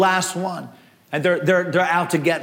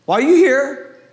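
louder repeated question; 4 semitones higher, 4 dB louder than usual. Acted.

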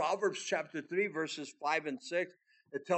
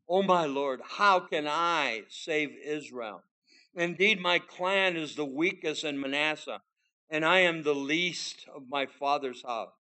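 raised, earnest reading of Gideon's plea; scripture reading; 4 dB louder than usual. Acted. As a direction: read the plea out with weight. Preacher reads Gideon's plea aloud.

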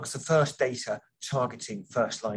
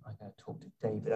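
fast, rushed, no pause for breath; all in one breath; 8 dB quieter, faster than usual. Real, not acted. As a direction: rattle it off in one go. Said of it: "without taking a breath".

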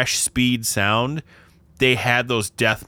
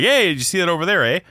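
a chatty Pennsylvania accent, sped up; 6 semitones higher, faster than usual. Shown as a demonstration. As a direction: toss it out fast like a Pennsylvania local. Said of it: "I go back to Pennsylvania".

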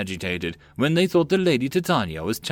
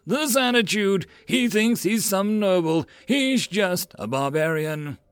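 ranting; 9 semitones higher than usual. A narrator's reading. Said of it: "Titus continued to rant on".

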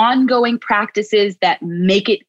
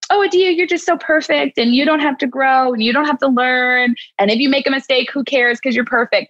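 mock gushing praise; 4 semitones higher, faster than usual. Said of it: "it doesn't mean".

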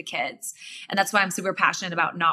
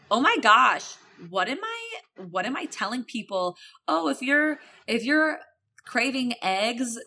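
mock disbelief. Mocking her past advice.

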